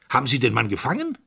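quick, pointed question; a hint of a stern colonel; sharply. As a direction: snap the question at him. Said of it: "fragte der Oberst scharf".

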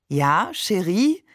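slow, adoring question with a lilt; drawn-out, doting reply; enraptured. A narrator's reading. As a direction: answer her as if marvelling at a vision. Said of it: "als wäre sie eine Erscheinung".

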